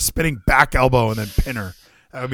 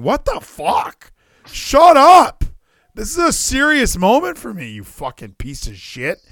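mock angry wrestler; 7 semitones higher, 5 dB louder than usual. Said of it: "I'm going".

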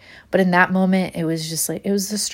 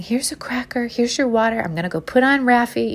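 soothing mom voice; 5 semitones higher than usual. Retold or imitated. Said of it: "I do the classic mom thing".

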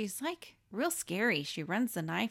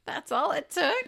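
high, loud incredulous question; mock disbelief; 9 semitones higher, 5 dB louder than usual. Podcaster mocking how easily they fled, incredulous. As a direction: ask it high, amused and amazed. Mocks characters fleeing in fright.

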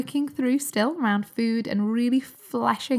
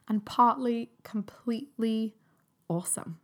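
whispered; slower than usual. Real, not acted. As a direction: whisper "completely awesome" secretly. Confiding how freedom feels.

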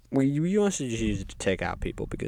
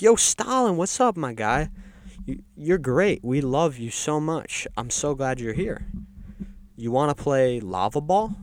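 over-friendly greeting, pitched up; fake-friendly welcome; 4 semitones higher than usual. Gang greets an unpopular newcomer in hell, falsely friendly. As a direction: gush a little to someone disliked.

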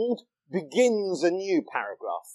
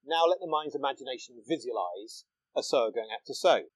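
quieter after a pause; 4 semitones lower, 6 dB quieter than usual. Shown as a demonstration. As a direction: let the line settle in quietly, like a storyteller.

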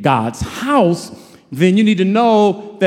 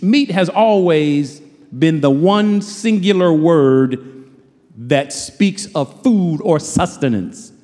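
slow preaching; slower than usual. Acted. Slow emphatic sermon point.

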